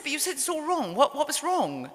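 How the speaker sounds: high-pitched, bewildered retort; baffled protest. Retold or imitated. Writer pressing mother on what was wrong, bewildered.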